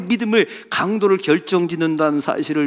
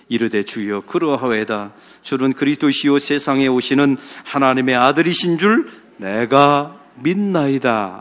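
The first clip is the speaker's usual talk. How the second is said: scripture reading; 2 semitones lower than usual. Acted. Congregation reads scripture together.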